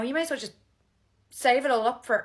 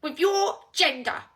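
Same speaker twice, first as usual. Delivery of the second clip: exasperated rant; 8 dB louder than usual. Acted. Exasperated rant about men.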